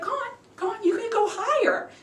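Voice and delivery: high, coaxing push; urging teacher. Retold or imitated. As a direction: coach him up the scale. Teacher urging him higher.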